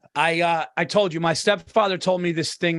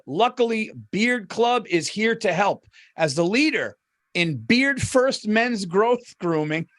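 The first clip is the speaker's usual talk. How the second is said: upbeat sponsor read, slow on key phrases. Acted. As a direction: sell the beard product to the listeners. Reads sponsor ad.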